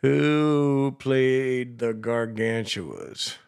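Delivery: slow, clear words for a voice search; slow dictation. Shown as a demonstration. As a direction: speak each word slowly for the phone. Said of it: "See if we can find out that way".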